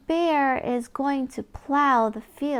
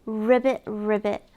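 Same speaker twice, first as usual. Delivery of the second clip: frog croak; 3 semitones lower, 3 dB louder than usual. Acted. Voicing the frog in a farm book, playful ribbit.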